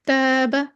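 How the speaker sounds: "तैबा" with a thin, light first vowel; light, fronted long alif in "तैबा"; बारीक अलिफ. Shown as a demonstration. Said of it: "इतना बारीक नहीं किया जाएगा कि इमाला". ("तैबा" का अलिफ बारीक पढ़ें)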